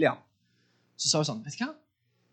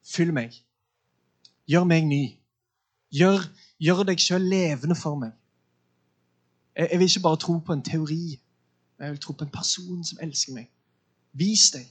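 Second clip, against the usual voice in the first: sincere prayer; 4 semitones lower than usual. Shown as a demonstration. Pastor shows the woman how to pray, low and sincere.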